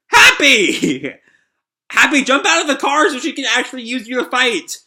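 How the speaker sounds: high, loud calling out; urgent yelling. Acted. Character telling Happy to jump out, urgent high yell. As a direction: holler instructions urgently.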